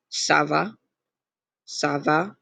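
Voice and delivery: "ça va" opening on an S sound. Shown as a demonstration. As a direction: demonstrate "ça va" with the C pronounced as S. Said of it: "makes the C sound like an S".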